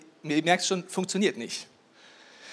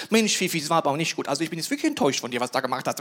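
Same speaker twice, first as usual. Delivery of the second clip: lower, disappointed owner's telling-off; mock scolding; 5 semitones lower, much faster than usual. Dog owner reproaching Fifi, mock disappointed scolding. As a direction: mildly chide the dog, quick and low. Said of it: "Du denkst, du schimpfst mit ihm".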